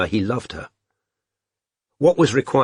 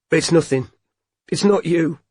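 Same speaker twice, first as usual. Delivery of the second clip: high and strained, trying to sound fine; high-pitched voice; 6 semitones higher than usual. A narrator's reading. Robin to Strike, hiding tears, high-pitched and strained. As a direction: voice pushed up high, holding back tears. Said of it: "said Robin in a high-pitched voice".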